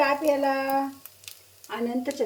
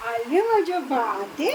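tender coo; slower than usual. Real, not acted. Greeting the parrot tenderly.

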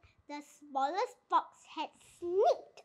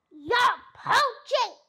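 high, loud, slow accusing shriek; 5 semitones higher, 5 dB louder, slower than usual. A narrator's reading. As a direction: screech the charge at the thieves. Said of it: "shrieked Rat".

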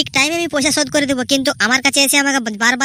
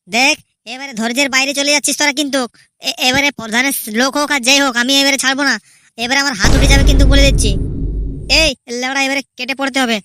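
angry warning. Acted. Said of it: "মনে হচ্ছে লালটু রেগে গেছে".

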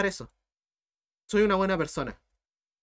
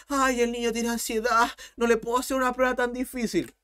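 mock soft professor; 3 semitones higher than usual. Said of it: "el profe va a decir".

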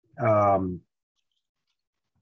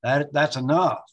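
impatient, slightly raised "come on, come on"; exasperated rebuke; 3 semitones higher than usual. Retold or imitated. Jesus brushing off his disciples about the two swords, exasperated. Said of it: "perhaps his, uh, inflection was".

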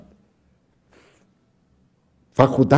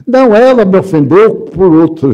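indignant protest; 5 semitones higher, 6 dB louder than usual. Retold or imitated. Husband protests, blaming wife.

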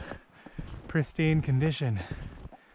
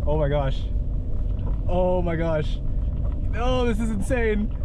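excited; 7 semitones higher, slower than usual. Real, not acted. Made it through snow.

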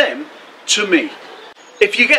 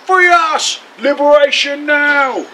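shouted slogans; 8 semitones higher than usual. A narrator's reading. Narrator voices the crowd greeting the king, shouting slogans. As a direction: call it out like a protest slogan. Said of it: "they're shouting different slogans".

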